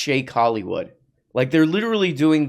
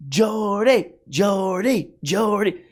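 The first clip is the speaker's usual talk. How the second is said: chiding sing-song; 7 semitones higher, slower than usual. Acted. Chiding Jordy.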